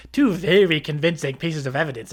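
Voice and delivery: mock sarcastic quote; sarcastic imitation. Streamer mimicking the narrator's jab at his evidence, mock sarcastic. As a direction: parrot his sarcasm, lightly exaggerated. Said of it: "he's being all sarcastic".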